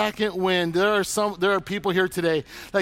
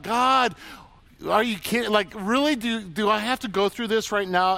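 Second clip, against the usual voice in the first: exasperated plea to God; 3 semitones higher than usual. Retold or imitated. Complaining to God.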